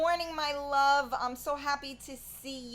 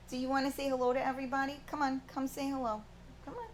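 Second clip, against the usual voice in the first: higher, quick pet talk; coaxing a pet; 4 semitones higher, much faster than usual. Real, not acted. Owner inviting the pet to say hello, coaxing. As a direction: coax in a higher voice.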